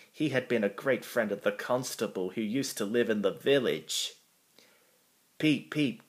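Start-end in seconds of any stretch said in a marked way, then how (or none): 5.4-6.0 high engine-whistle double peep. A narrator's reading. Thomas greets the policeman, high whistled peeps. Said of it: "Thomas whistled".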